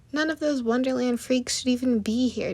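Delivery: loud angry shout. A narrator's reading. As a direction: shout it with contempt. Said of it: "Daring shouted".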